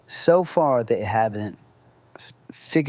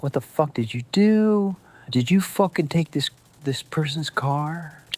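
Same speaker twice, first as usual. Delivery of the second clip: higher, angry phone shout from the friend; yelling friend; 5 semitones higher than usual. Retold or imitated. Friend on the phone, a high angry mock yell. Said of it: "he's yelling at me".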